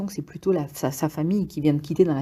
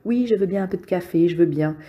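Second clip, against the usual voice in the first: mocking imitation; 2 semitones higher than usual. Antoine mocking Louis for wanting more coffee, snide parroting. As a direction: echo his words back to mock him. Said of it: "Et il l'imite".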